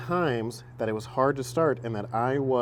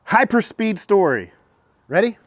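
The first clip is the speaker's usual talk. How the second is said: hyperspeed intro; 5 semitones higher, 3 dB louder than usual. Real, not acted. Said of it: "try something a little bit new".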